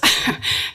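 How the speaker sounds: short breathy nervous laugh. Real, not acted. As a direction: laugh off the nerves. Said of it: "sorry, I'm nervous".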